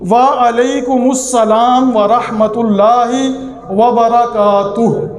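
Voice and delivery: the full "وعلیکم السلام ورحمت اللہ وبرکاتہ" slow and distinct; slow careful recitation. Shown as a demonstration. Teacher reciting the complete reply slowly. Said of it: "میم کے اوپر پیش ہے".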